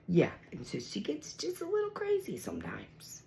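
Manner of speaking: whispered aside about the cat. Real, not acted. Whispering to viewers that the cat gets crazy. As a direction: let it drop to a whisper.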